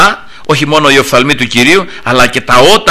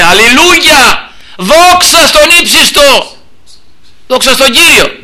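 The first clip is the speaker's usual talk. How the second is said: crying out praise; 10 semitones higher, slower than usual. Shown as a demonstration. Preacher shows the congregation how to cry to the Lord, exultant shout. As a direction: let hallelujah ring out, high and stretched. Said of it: "πρέπει να κράξουμε στον Κύριο".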